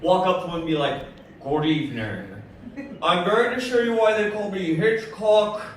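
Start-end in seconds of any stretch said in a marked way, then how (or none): 1.4-5.6 lightly voiced Hitchcock; Alfred Hitchcock impression. Comic introducing himself to a woman as Hitchcock. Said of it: "thin Alfred Hitchcock".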